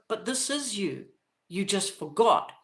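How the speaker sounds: softly retold gentle reminder; smiling reassurance. Imaginary friends reminding the confused child, gently reassuring. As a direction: say it gently with a smile. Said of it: "they just smile and they go".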